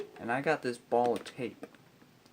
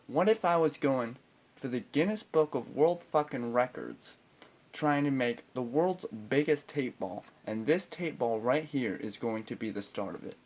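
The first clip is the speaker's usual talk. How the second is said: grandly emphatic mock pitch; smart-ass. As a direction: sell the absurd excuse with cheek. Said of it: "smart-ass mood".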